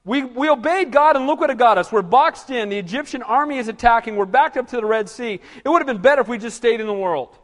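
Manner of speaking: hammed-up complaining crowd; complaining Israelites. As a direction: whine like ungrateful people who want out. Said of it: "we clamor and we complain".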